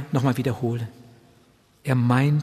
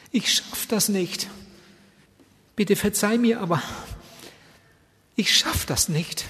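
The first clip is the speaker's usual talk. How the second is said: pleading; 6 semitones higher than usual. Retold or imitated. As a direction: draw it out, pleading. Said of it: "richtig angefleht".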